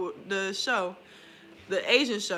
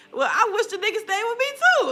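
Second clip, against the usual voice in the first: laughing; 10 semitones higher, 6 dB louder than usual. Real, not acted. Laughing joke about the baby's father.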